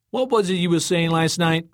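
high, taunting call; smiling yell. A narrator's reading. Tom in the floating car taunts Joey below, smiling yell. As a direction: call down smugly with a smile. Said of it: "Tom yelled down, smiling".

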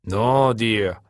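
mildly patient correction; patient interruption. A narrator's reading. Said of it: "Taka interrupted very patiently".

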